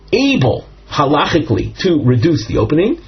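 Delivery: halachically given clear weight in the phrase; stress on halachically. Shown as a demonstration. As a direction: lean on the word halachically to make the point. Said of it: "I emphasize the word halachically".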